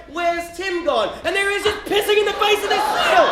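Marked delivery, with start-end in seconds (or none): 0.1-1.2 slow, higher mock mum call. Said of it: "Mum's just like".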